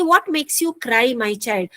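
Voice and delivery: slow, careful reading of the quote; slow teacher read of the story line; slow quoted line. Shown as a demonstration. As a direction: read it slowly so students follow. Teacher rereads quote for class.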